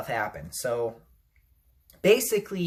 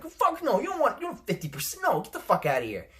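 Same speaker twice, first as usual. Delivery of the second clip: mock Sony refusal; 6 semitones higher, faster than usual.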